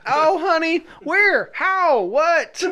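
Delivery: high, laughing confused father; mock Arnold dad. Host mocking Arnold dad flustered, high and laughing. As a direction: squeak out the questions. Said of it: "and he's like".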